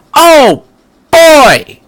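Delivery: very high, loud mock dismay; hammed-up exclamation. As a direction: blurt it out in comic alarm. Narrator's own exclamation.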